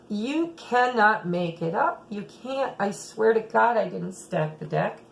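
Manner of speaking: ordinary talk, nothing marked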